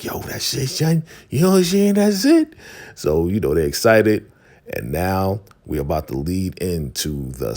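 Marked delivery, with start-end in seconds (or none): 0.0-2.5 imitating wild excitement, voice shooting very high; a rapper. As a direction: build to a loud, high-pitched hyped-up holler. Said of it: "a rapper is getting all excited".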